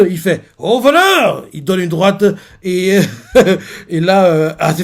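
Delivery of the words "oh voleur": «voleur» crié plus haut et plus fort; cri de surprise. Retold or imitated. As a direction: lancer le cri en frappant. Cri en frappant. (cri aigu et fort au moment du coup)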